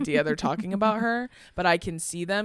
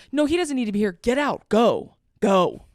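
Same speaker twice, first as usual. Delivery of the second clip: retold heated order, louder on the last words; indignant dismissal; 3 semitones higher, 5 dB louder than usual. Performer orders the culprit off set, indignant. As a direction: throw him out, higher at first. Acted order throwing the man out.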